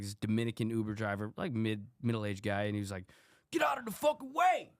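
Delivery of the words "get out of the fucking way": high mock scream at a pedestrian. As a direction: yell it like an angry Uber driver. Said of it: "Like, screaming".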